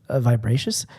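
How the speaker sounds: tipsy, whispered stumble. Real, not acted. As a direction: whisper the wrong word, tipsy. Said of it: "I'm so drunk right now".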